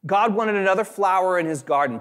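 high and sugary, parroting the empty comfort; mock pious platitude. A preacher mimics churchgoers' hollow comfort, high and sweet. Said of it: "he said this was not helpful".

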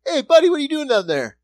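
lightly voiced nosy guy catching someone; acting out a busted bystander. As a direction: play a stranger calling someone out. Acting out getting busted spilling.

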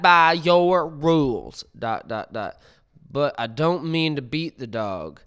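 a preachy woman hammering home her rules; imitation voice. Reading a stranger's post aloud, mimicking its preachy author. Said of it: "I'll do my best, uh, imitation voice".

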